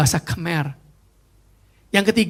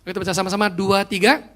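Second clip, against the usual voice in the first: ordinary talk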